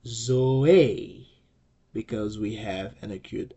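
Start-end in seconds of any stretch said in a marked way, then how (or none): 0.1-1.3 Zoe in two syllables, stress on the last; teacher models Zoe; model pronunciation. Shown as a demonstration. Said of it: "the right pronunciation is".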